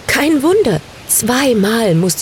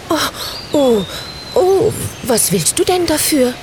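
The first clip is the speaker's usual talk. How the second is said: higher, timid asking voice; timid little witch; 7 semitones higher than usual. A narrator's reading. Little witch nervously asks the black bird, timid and high. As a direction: ask the bird nervously, voice raised. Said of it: "Ängstlich schaute Samantha".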